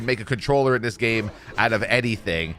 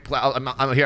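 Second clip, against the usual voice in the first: ordinary delivery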